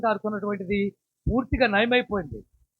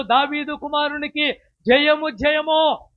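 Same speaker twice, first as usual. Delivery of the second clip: raised, louder cheer of praise; children's victory shout; 4 semitones higher, 4 dB louder, slower than usual. Retold or imitated. Preacher cheering as the children in the temple. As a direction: call out jayamu like the crowd of children. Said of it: "అని కేకలేస్తున్నారు".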